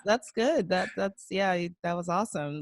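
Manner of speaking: imitating halting, half-hearted approval; hesitant lukewarm congratulations; not that excited. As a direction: feign polite enthusiasm, unconvincingly. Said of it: "he's not that excited".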